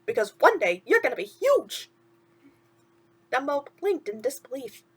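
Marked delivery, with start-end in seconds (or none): 0.0-1.9 chirpy sidekick asking what's wrong; a hint of cartoon mouse; lightly voiced mouse. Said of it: "Timothy asked".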